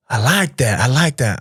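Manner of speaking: lightly imitated Texan approval; touch of put-on Southern US accent; Texas Southern accent. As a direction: approve like a Southern stranger, a little bit hood. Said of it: "I'm trying to do the accent here".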